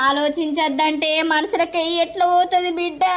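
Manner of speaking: half-sung weeping lament; tearful lament. Acted. Grandmother tells son-in-law she can't accept the loss, weeping in sung lament. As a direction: keep wailing, pleading that she can't believe it. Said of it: "ఏడవకు అత్తమ్మ".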